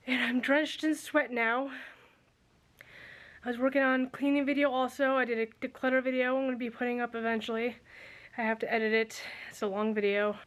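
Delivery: winded after a workout, panting; out of breath. Real, not acted. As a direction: talk while still catching breath. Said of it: "I'm out of breath if you can't tell".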